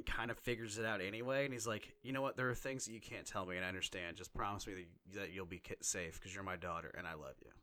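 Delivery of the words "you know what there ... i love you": fading softer and lower as the throat tightens; tender father's words, voice giving way; soft, lowering and choked, fading out. Real, not acted. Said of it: "I got a little choked up".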